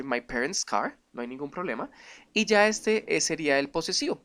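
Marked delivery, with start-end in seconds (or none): 0.0-1.0 parents' said with no extra S sound; English demo. Shown as a demonstration. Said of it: "se dice".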